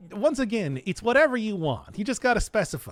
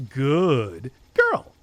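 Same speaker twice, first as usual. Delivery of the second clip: sexy voice; 4 semitones lower than usual. Pretend. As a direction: purr it sexily, dropping low.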